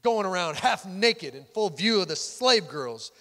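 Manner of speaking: imitating a disdainful wife's sarcasm; scornful wife. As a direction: read it as a withering mock compliment, falling at the ends. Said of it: "That's exactly how she sounded".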